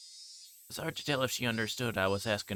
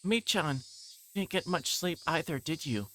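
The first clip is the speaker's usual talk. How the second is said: put-on little girl voice; 8 semitones higher than usual. Child character voiced in story.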